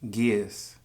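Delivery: gears, said slowly as Philly's "gears" for gas; Philly pronunciation. Shown as a demonstration. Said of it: "Here you will find words like".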